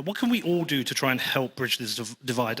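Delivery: ordinary talk, nothing marked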